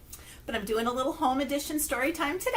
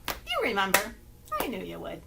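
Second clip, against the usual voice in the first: ordinary talk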